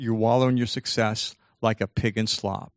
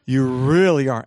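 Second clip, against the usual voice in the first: loud, emphatic mock gushing; hammed-up self-praise; gushing self-admiration; 7 dB louder than usual. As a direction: lean hard on "really", gushing at yourself. Acts out admiring self in mirror.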